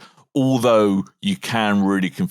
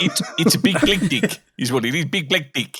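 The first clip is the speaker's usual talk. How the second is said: put-on South African accent; 5 semitones higher than usual. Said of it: "South African accent".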